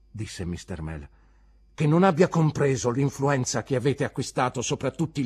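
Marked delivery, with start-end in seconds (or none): 1.7-5.2 loud, raised-pitch rebuke; aggrieved teacher speaking up; indignant accusation. Acted. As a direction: confront the pupil with his conduct.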